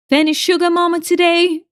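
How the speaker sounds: second, stronger go at a British accent; better British accent. Shown as a demonstration. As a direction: commit harder to the British accent. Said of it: "That is better".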